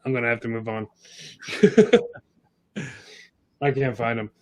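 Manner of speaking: muffled like in a fishbowl; sounding muffled and far away; underwater. Real, not acted. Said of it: "You sound like you were in a fishbowl there".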